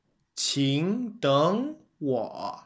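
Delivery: "请等我" with "请" and "等" rising in second tone, "我" dipping in third; tone sandhi demo. Shown as a demonstration. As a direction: say "请等我" as two two three. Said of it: "You would say".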